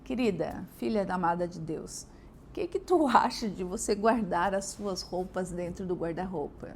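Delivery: lightly tender mother asking nicely; sweet request. Shown as a demonstration. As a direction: ask kindly instead of scolding. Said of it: "Não é assim?".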